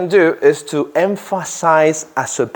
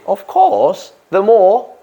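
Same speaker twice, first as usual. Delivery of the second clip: higher, cheerful reply; teacher voicing the host, higher and welcoming; 7 semitones higher, slower than usual. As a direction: answer like a happy host. Teacher acts out host answering again.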